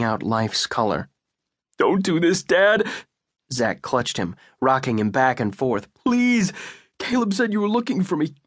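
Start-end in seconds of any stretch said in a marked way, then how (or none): 1.8-2.9 much higher, desperate; anguished plea. Acted. Son begs his dying father not to go. 5.9-8.3 much higher, rushed, breaking; sobbing apology. Acted. Son apologizes to his dying father, grief-stricken.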